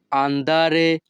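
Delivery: slow, careful teacher pronunciation; very slow, deliberate Italian; slow Italian model phrase. Shown as a demonstration. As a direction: lay out each syllable slowly for the learner. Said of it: "তখন আমাদেরকে বলতে হবে".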